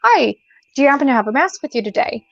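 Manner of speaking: bright, high, polite retail voice; sweet customer greeting. Retold or imitated. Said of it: "I'd very kindly say".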